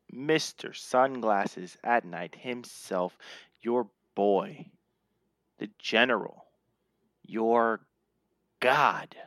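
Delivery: slow, dramatic billing with long pauses; announcer self-introduction. Acted. Host billing himself to the listeners, slow announcer build. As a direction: let each title hang before the next.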